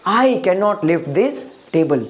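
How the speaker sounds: slow, careful English sentence; slow model sentence. Shown as a demonstration. Teacher models the English sentence slowly for students. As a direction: say each word slowly for the class to copy. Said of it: "तो मैं क्या बोलूंगा?".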